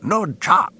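loud, high alien shout; eyeball scream. A narrator's reading. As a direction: scream from the shadows. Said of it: "the strange voice of the eye screamed".

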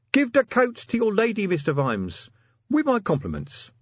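troll voice. A narrator's reading.

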